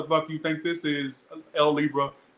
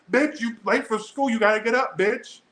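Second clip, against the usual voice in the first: a hammed-up mom yelling her kid awake; mama scolding; 7 semitones higher than usual. Mama rousing her late child for school, mock scolding. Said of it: "My mama's called me all kinds of bitches".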